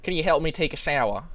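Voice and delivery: light imitation of a Southern accent; mock southern twang. Teasing the storyteller's accent, mock Southern twang. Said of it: "southern twang in your accent".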